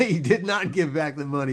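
laughing while stressing did not; laughing emphatic. Real, not acted. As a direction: repeat it through a laugh, hitting "did not". Repeats claim, laughing.

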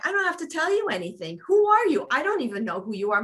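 rapid, high-pitched indignant retort; agitated, pushy. Retold or imitated. Mother retelling how she challenged the officers, agitated and pushy. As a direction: fire back defiantly, loud on the challenge. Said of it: "I'm getting loud, I'm getting agitated".

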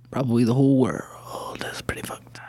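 put-on slurred, muttered drunk whisper; a mumbling drunk. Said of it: "Oh, he's drunk".

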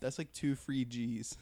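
slow, stoned drawl. Real, not acted. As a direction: let it drag, high. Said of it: "I'm higher".

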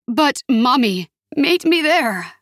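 high, slow pleading; desperate plea. Acted. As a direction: plead in panic.

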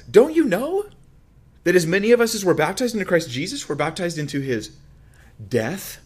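very high, loud opening question, easing slightly; heightened incredulity. Acted. Preacher reads Paul's question on baptism, loudly incredulous. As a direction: push the pitch way up in disbelief. Acting out Paul questioning his readers.

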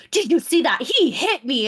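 mock outrage, pitch jumping up; mock alarmed accusation. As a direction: imitate a false victim appealing to witnesses. Acting woman's false public accusation.

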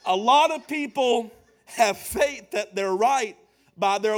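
rising sermon cadence over music; preaching over music. Acted. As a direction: preach it with swelling fervour.

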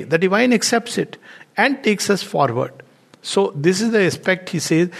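ordinary delivery

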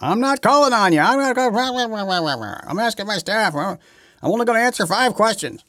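high, loud cranky mock yell; mock angry old man. Host mocking the president snapping at reporters, high and loud. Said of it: "he got mad at the reporters".

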